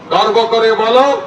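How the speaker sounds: slogan call with a rising end; slogan lead. Shown as a demonstration. Speaker leading the crowd in Swamiji's words, rallying call. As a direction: prompt the crowd to answer back. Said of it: "জোরে বলুন".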